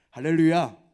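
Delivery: a loud cry of praise to the room; shouted hallelujah. Real, not acted. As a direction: call it out full voice. Preacher calls out to congregation. (크게 외치는 할렐루야)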